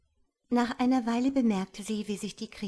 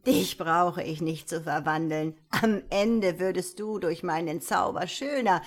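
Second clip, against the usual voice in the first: a touch louder, scornful wizard; angry and puzzled; 4 dB louder than usual. Acted. Wizard mocking the ugly princess, annoyed and puzzled. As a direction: sneer at her, annoyed and baffled. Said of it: "fragte der Zauberer ärgerlich und verwundert".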